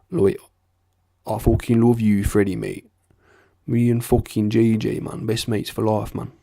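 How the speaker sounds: lightly done East Midlands lad's accent. Shown as a demonstration. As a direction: put on a matey East Midlands accent, between north and south. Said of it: "So it's like this. It goes".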